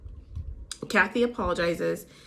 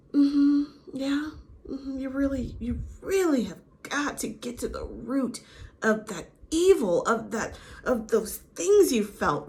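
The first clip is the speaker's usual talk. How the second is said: lightly put-on therapist, slightly raised pitch, deliberate pauses; mock armchair therapist; 5 semitones higher than usual. Lisa playing armchair therapist to Kathy, mocked with knowing hums. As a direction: parody a probing therapist, leaning on key words. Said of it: "Lisa Rinna's the armchair therapist".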